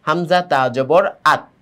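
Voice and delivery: letters named, then one blended syllable "আত"; joined spelling drill. Shown as a demonstration. Teacher shows the letters joining, "আত" said as one syllable. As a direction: spell out "হামজা তা জবর", then join it as "আত". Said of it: "এই যে মিলে গেল".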